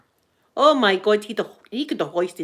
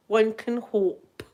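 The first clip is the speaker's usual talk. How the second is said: slower still, One can hope trailing off; drawn-out resigned hope; slow dreamy wish; wistful echo; 2 semitones higher, much slower than usual. Real, not acted.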